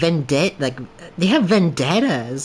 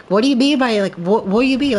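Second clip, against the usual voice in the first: mock upset woman; 5 semitones higher than usual. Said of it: "she starts losing it".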